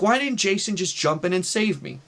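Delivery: half-voiced retold yelling; mild mock yell. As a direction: imitate a crying kid complaining to mom. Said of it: "I start yelling at my mom".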